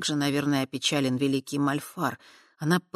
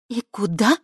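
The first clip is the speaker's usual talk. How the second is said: mocking; 6 semitones higher, 5 dB louder than usual. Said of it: "насмешливо произнесла Кава".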